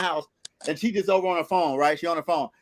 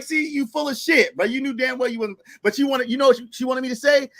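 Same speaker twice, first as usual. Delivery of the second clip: higher, needling retold retort; retold call-out; 6 semitones higher than usual. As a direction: call her bluff, pitched up. Calling girlfriend's bluff, retold.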